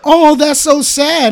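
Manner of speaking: high, slow, drawn-out pity; imitating girlfriend's sympathy. Girlfriend reacting to the injury on TV, imitated high pity. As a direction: imitate a girlfriend cooing over bad news. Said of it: "I just hear my girl literally go".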